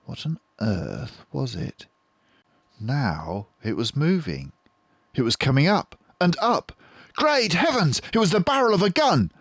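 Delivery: from hushed wonder up to a high, loud cry; rising alarm. A narrator's reading. Narrator spotting the gun, rising to alarmed cry. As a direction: build the suspense to a shocked exclamation.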